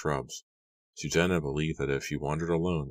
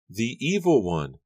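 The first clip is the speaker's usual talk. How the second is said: high-pitched, drawn-out cry of alarm; frightened cry; 8 semitones higher than usual. A narrator's reading. Susanna grabbed from behind in the woods, frightened cry. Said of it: "she cried".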